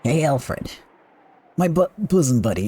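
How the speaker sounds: Davis. Acted. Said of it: "That what Davis sounded like?".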